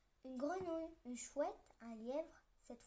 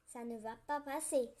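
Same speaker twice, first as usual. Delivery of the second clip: worried; 5 dB louder than usual. Acted. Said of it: "s'inquiète la souris".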